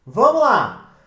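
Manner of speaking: loud "Vamos lá!" to launch; upbeat rally. Real, not acted. Teacher starting the general rules with students, upbeat. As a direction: rev up the class.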